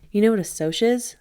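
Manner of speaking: furious, barely holding it; boy firing back in rage; shaking with rage. A narrator's reading. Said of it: "my voice shaking with rage".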